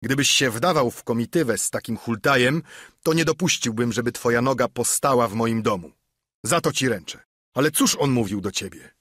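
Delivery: mild menacing innkeeper; gruff Silver. Acted. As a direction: lay down the law to Morgan. Silver threatens Morgan.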